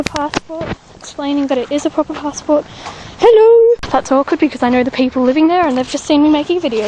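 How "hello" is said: high, loud greeting to neighbours; calling out hello. Real, not acted. Caught filming by people she knows, calling out hello. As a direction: call out a bright, high hello from the street.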